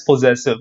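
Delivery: "possessive" with a full "poh" first syllable; mispronunciation. Shown as a demonstration. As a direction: say "possessive" wrongly as poh-ZESS-iv. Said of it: "That's an incorrect pronunciation".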